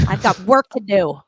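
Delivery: mock-indignant clown with a job to do; gruff clown brush-off. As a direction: brush the other kids off loudly. Clown snapping at other kids.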